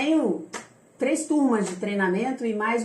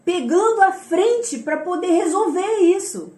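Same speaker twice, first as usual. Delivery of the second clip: imagined complaint; 3 semitones higher, 3 dB louder than usual. Retold or imitated. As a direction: quote a critic grumbling, stretching the key words. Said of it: "a pessoa pode pensar".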